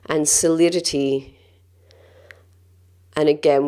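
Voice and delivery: calm, gentle guided-breathing voice; measured meditation guide, leaving space between phrases. Acted. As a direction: lead them through breathing with long, unhurried pauses.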